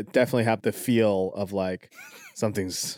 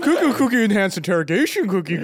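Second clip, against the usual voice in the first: laughing singsong; 9 semitones higher, 4 dB louder, faster than usual. Real, not acted. Teasing singsong through laughter.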